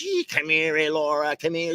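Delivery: hammed-up menace of a machine coming after someone; evil robot mower. Robot mower turns on its evil side and chases a child, playful evil machine voice. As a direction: play an evil little mower giving chase. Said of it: "turns on its evil side".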